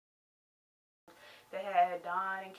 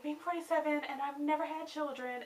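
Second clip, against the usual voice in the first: raised-pitch mimicry; mocking imitation; 6 semitones higher than usual. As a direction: quote her in a higher, mocking voice. Mimicking Dawn's line.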